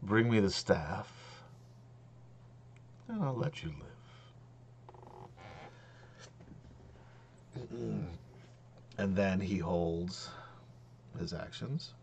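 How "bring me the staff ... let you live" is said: slow, drawn-out dragon speech; condescendingly slow. Acted. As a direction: talk down to lesser creatures, slowly. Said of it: "I'll say this slower for you".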